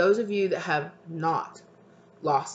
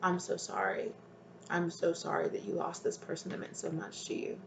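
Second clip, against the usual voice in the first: near tears; 2 semitones higher, 6 dB quieter than usual. Real, not acted. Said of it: "I'm almost feeling like crying".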